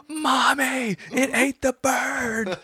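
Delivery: put-on very high, slow, wailing child; upset little girl. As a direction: cry it out like a shocked little girl. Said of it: "She goes".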